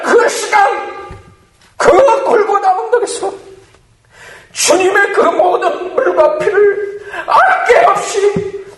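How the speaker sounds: high, strained pulpit cry at full force; impassioned preaching. Real, not acted. Preacher pleading before the cross for repentance today, impassioned high cry. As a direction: cry out to the congregation in fervent, urgent appeal.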